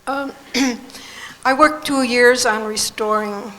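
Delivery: hoarse, fading voice; losing her voice, hoarse. Real, not acted. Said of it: "I'm getting a little hoarse".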